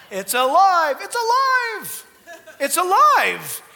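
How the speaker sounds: loud preaching cry, rising high; shouting. Real, not acted. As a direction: proclaim it at full force. Preaching, insistent repetition.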